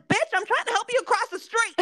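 high, exasperated mock yell; retold angry brother. Angry brother yelling at the old lady, in a high mock yell. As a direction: play the fed-up brother snapping at the lady. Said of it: "he's fucking telling me this".

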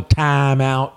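"timeout" with the I drawn out as "ah"; Southern long I. Shown as a demonstration. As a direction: say "timeout" like a Kentuckian, "tahm-out". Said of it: "I would call that the long I".

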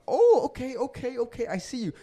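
hyped, sizing him up before shoving back; mock tough challenge. Shoved at the bar, he squares up to the stranger: cocky challenge.

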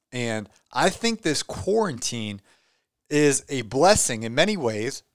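talking through hiccups. Real, not acted. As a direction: hiccups breaking the speech. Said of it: "I have the hiccups".

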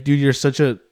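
worked-up outburst at a shout-out beggar; pissed off. Real, not acted. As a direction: let real irritation push through. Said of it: "you can hear H is pissed".

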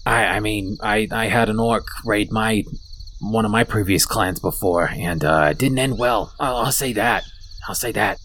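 lightly voiced kobold, low and halting; a touch of grim reluctance; reluctant kobold. GM voices haunted kobold leader.

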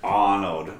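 a hint of low Austrian accent; Arnold. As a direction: say the name like an Austrian strongman. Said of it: "I wanna be".

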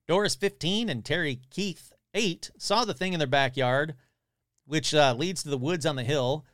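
lively read-aloud with quotes lightly acted; article read aloud. Podcaster reading a monster report to listeners, animated read-aloud. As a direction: read out an old news story with relish.

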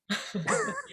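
short, high, soft laugh; a light laugh at her own eagerness. Real, not acted. Laughing at herself for wanting to race again.

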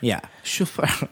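chauffeur with a put-on French accent, slow; soft slow French-accented chauffeur. Real, not acted. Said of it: "why I said it with an accent".

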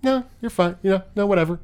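dry, unbothered backhanded remark; deadpan. Retold or imitated. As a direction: toss it off without caring. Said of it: "deadpan. I love her deadpan".

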